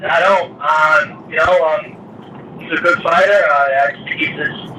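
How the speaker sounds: talking through a speakerphone. Real, not acted. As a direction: voice over a phone line. Fighter answering over conference call.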